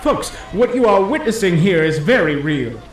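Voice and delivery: urgent announcing. Acted. Announcer insists murder is real.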